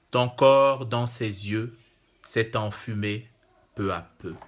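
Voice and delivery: slow, measured verse with long pauses; poem recitation. Acted. Poet giving listeners the first two stanzas of his river-poem, slow recitation. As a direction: recite it line by line, falling away at the close.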